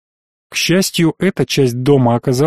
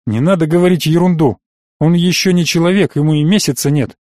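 snorting dismissively; 2 semitones higher than usual. Acted. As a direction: brush it off with a touch of disdain. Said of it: "фыркнул Авинов". (слегка пренебрежительно, с фырканьем)

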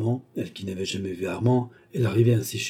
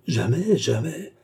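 higher, rising cries of refusal; aghast, higher-pitched protest; emphatic denial; 5 semitones higher, slower than usual. A narrator's reading. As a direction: deny it twice, pitch swooping up. Woman denies accusation of theft.

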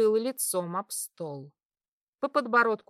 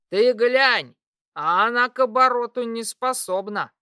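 yelled; 2 semitones higher, 8 dB louder than usual. Acted. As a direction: bellow it across the tavern table. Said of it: "проорали рядом".

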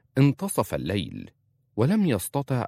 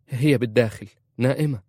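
quick, higher and louder reassurance; hurried; 4 semitones higher, 5 dB louder than usual. A narrator's reading. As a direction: blurt it out to calm him. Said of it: "قالت عزة مسرعة". (بسرعة وبصوت عال مرتفع)

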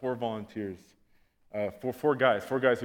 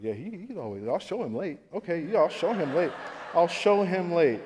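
mock vengeful resolve; 3 semitones higher than usual. Acted vengeful resolve building.

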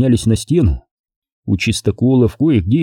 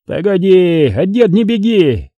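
high, drawn-out call to stop; urgent warning; 7 semitones higher, slower than usual. A narrator's reading. Monk holding back the boy who rushes forward, urgent. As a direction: call after someone to hold back.

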